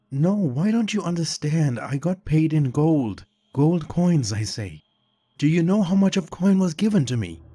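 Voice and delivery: desperate sobbing confession. A narrator's reading. Shapeshifter confessing his bribe to the vampire cop, high tearful panic. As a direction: confess the greed through rising sobs. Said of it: "The man sobbed uncontrollably".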